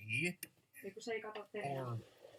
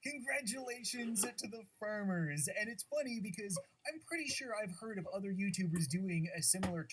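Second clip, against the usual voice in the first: lightly voiced tournament announcer. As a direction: commentate the match with hype. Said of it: "that stupid announcer voice".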